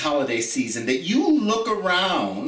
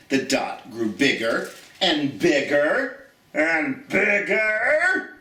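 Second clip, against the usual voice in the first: building excitement; slower than usual. Acted. Dot grows as rocket nears.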